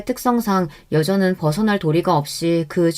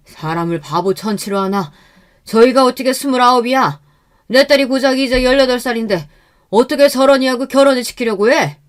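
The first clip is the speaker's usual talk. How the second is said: acted indignant protest, building higher and louder; rising fatherly indignation, raised voice; angry father; 5 semitones higher, 4 dB louder than usual. A narrator's reading. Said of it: "친정 아버지는 오히려 더욱 화가 나신".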